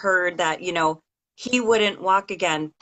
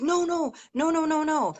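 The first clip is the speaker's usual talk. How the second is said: quick reassuring no's; 9 semitones higher than usual. Retold or imitated. Clergy reassuring panicked mother.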